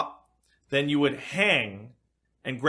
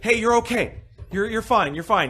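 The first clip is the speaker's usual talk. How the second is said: higher, lightly soothing fake comfort; mock reassuring; 6 semitones higher than usual. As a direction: pat them down verbally, half-hearted reassurance. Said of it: "you go up to them like".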